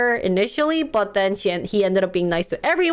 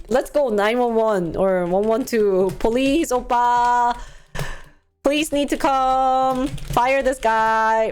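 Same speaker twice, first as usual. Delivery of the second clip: mock police call. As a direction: play at calling in the police, stretching word endings.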